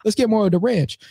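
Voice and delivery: high-pitched mock woman's voice; hammed-up woman on speakerphone asking for ranch; imitating a woman. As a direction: put on a high, airy lady voice ordering food over the phone. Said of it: "she was like".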